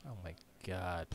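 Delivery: ordinary delivery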